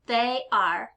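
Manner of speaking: THEY ARE as two separate words; two-syllable they are. Shown as a demonstration. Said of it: "Let's put that as two syllables".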